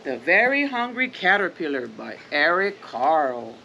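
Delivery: gentle, even storybook reading; reading to children. Acted. Parent reads The Very Hungry Caterpillar to the kids, gently. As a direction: read it like a bedtime picture book.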